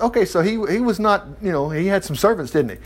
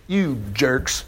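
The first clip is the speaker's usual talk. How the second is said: laughing retort; slower than usual. Retold or imitated. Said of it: "Joash retorted".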